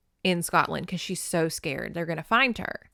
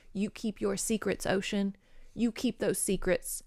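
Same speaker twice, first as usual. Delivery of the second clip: hushed to the ocean; 6 dB quieter than usual. Acted. Talking to the ocean.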